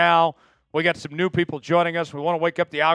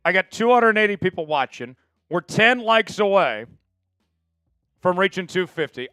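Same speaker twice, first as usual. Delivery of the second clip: hyped streamer; 2 semitones higher, 4 dB louder than usual. Real, not acted. Hyping the like count.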